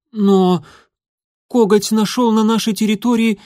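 high, hurried report of enemy tracks; young warrior's mew. Acted. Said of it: "мяукнул он".

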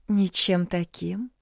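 slow, purring coy reply. Acted. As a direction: purr it out slowly. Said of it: "мурлыкнула девушка".

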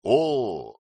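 expressive. A narrator's reading. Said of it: "выразительно проговорил Тарвин".

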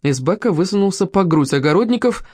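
usual speaking voice

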